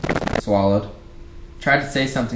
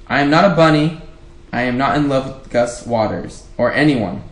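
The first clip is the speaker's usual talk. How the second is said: defensive; 3 semitones higher, 4 dB louder than usual. Shown as a demonstration. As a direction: snap it back defensively. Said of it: "she wouldn't even say it like that".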